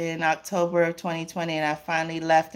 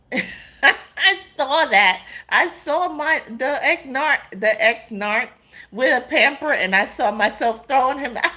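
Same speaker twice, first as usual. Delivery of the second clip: laughing; 6 semitones higher than usual. Real, not acted. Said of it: "why I'm laughing".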